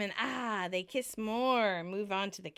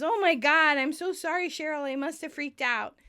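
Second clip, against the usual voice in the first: higher-pitched acted apology, easing off; acted contrition, starting louder and higher; flustered apology; 5 semitones higher, 4 dB louder than usual. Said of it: "Ross apologizes".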